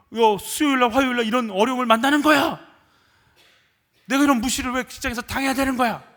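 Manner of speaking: loud, high-pitched aggrieved protest; indignant complaint. Acted. Aggrieved church worker protesting hardships after serving faithfully, acted angry outburst. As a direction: hammer out each grievance, building to an outraged question.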